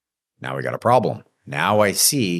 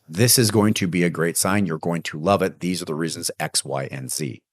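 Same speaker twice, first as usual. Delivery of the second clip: steady, sure sales pitch with no hesitation; mildly confident pitch to a client. Shown as a demonstration. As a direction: own the price and sound like you believe it. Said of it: "you can hear the confidence in my voice".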